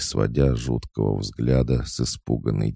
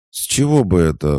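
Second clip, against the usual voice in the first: high, loud indignant retort; 8 semitones higher, 8 dB louder than usual. A narrator's reading. Lucy indignantly confronting Oksana. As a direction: throw it back in outrage. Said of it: "возмутилась Люси".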